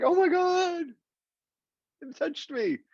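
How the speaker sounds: high, hammed-up weepy gushing; playfully exaggerated crying voice; mock tearful. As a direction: act overcome by a soppy commercial. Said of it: "I cry at commercials".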